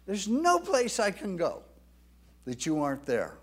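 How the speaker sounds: a touch of David's voice; mild voicing of David. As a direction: speak as David, pleading a little. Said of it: "David's saying".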